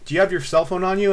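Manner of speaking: stern cop. Retold or imitated. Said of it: "He goes".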